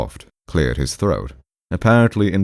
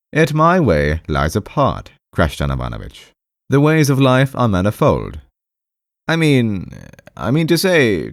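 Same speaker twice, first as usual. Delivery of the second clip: awkward, defensive patient; 2 semitones higher than usual. Acted. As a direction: grope for words in a raised voice.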